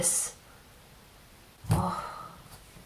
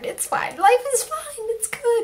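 mock calm; 12 semitones higher than usual. Calming herself after emotion.

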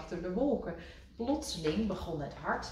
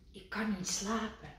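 softer, sleepy frog voice; quiet complaint; 3 semitones higher, 5 dB quieter than usual. A narrator's reading. Kikker telling Rad at night, softer. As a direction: murmur it in the dark.

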